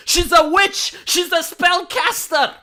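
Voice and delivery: high, hammed-up witch-hunt cry; mock hysterical accusation. Sarcastic host denouncing a student as a witch, hammed-up. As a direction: shriek it like a fake zealot.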